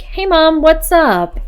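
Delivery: high, chirpy pretend hello; cheery greeting. Greeting mum for a chat, play-acted cheeriness.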